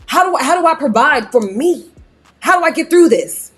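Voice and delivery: lightly put-on hard-luck testimony voice; mock-solemn testimonial. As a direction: tell a hard-luck story with exaggerated earnestness. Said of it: "I cannot stand when people talk like this".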